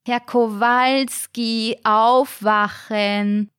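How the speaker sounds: high, slow, drawn-out call; shrill nurse. Acted. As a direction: wake him with a piercing sing-song. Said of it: "die schrille Stimme von Pflegerin Mariella".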